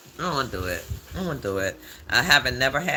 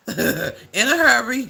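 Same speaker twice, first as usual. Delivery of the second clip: laughing; 9 semitones higher, 6 dB louder, slower than usual. Real, not acted. Laughing while talking.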